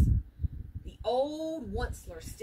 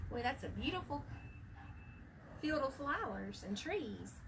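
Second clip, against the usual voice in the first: soft, hushed aside; quiet aside; 11 dB quieter than usual. Acted. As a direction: murmur it softly to yourself.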